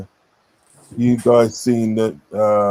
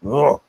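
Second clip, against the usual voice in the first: short groan of distaste, slightly higher; disgusted ugh; 4 semitones higher than usual. Real, not acted. Man revolted by the Brummie accent, disgusted ugh.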